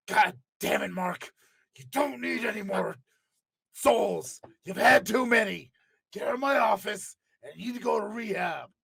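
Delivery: a lightly voiced boss scolding his wrestler; Vince impression. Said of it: "going from Vince Undertaker".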